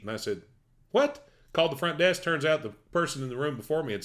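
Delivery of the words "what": sudden high squeak of disbelief; a jolt of surprise at the news; shocked what. Retold or imitated. Teller retelling his shock about the towel, high and disbelieving.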